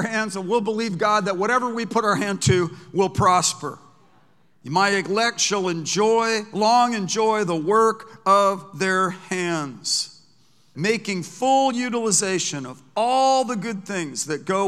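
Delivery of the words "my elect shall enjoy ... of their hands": very slow, stretched, louder verse reading; drawn-out proclamation. Acted. Preacher proclaims the verse to the church, slow and drawn out. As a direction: savor each word of the promise.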